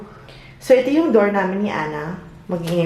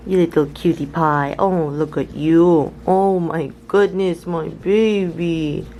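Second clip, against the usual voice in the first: low, slow and tender cooing; 4 semitones lower, slower than usual. Real, not acted. Cooing at her baby.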